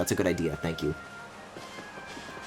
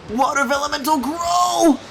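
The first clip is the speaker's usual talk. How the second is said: high, loud battle cry; summoning shout; 13 semitones higher, 4 dB louder, slower than usual. Acted. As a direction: call out the summon with force.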